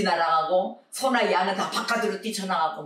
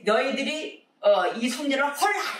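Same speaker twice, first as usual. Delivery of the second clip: higher, raised declaration of Jesus; Jesus declaring to the crowd in a raised voice; 6 semitones higher than usual. Retold or imitated. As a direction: proclaim it like Jesus with authority, pitched up. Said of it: "이랬단 말이에요, 예수님이".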